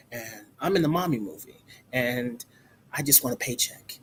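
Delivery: a half-hearted, lazy celebrity impersonation; bad Tom Cruise impression. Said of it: "It's a terrible Tom Cruise impersonation".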